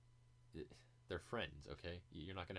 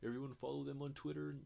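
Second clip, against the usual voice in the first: much higher mock-agreeable host voice; exaggerated gushing endorsement, high-pitched; Joe Rogan; 9 semitones higher, 3 dB louder than usual. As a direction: imitate an eagerly promoting host, pitched way up. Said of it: "and Joe".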